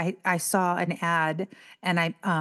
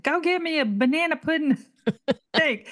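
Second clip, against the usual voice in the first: higher, laughing demand; mock demanding wife; 8 semitones higher than usual. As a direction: call out from the other room. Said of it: "I said".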